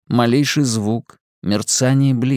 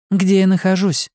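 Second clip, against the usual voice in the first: higher, urgent demanding questions; demanding woman; 8 semitones higher than usual. Acted. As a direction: press him for answers. Simona demands.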